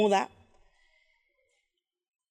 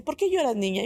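put-on only a touch higher, a lighter old-lady voice; 3 semitones higher than usual. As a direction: repeat the old woman's question, less put on. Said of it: "Y me dice". (una viejita apenas insinuada, un poco más aguda)

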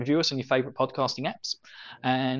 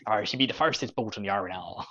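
pirate voice; 4 semitones lower, 4 dB quieter than usual. Pretend. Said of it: "generic, uh, pirate voice".

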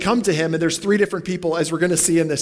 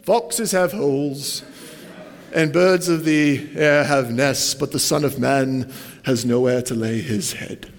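put-on British accent; 2 semitones lower, slower than usual. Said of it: "I always imagine Jesus with a British accent".

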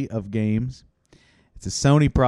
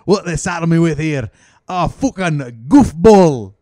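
a touch of angry louder grumble; mock rant; 5 dB louder than usual. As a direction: scold the hopeless pupil. Coach rant.

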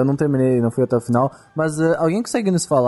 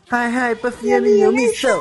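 high, slow showy title call; show title announcer; 7 semitones higher than usual. Pretend. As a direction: announce it like a TV opener.

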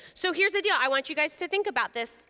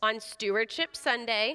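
leading a prayer; 3 semitones lower, slower than usual. Acted. Leads a repeat-after-me prayer.

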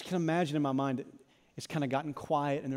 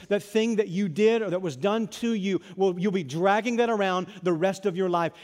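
Jesus speaking; 4 dB louder than usual. Acted. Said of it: "say to you".

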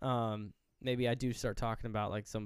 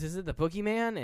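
put-on frightened child; 8 semitones higher, 5 dB louder than usual. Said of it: "He goes".

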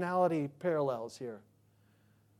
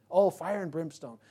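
sarcastic. Shown as a demonstration. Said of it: "they say it in a sarcastic way".

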